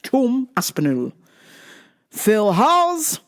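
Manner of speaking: put-on English accent on the name. Podcaster repeating a fighter's name in an English accent. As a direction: say it like an English speaker. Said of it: "say it with an English accent".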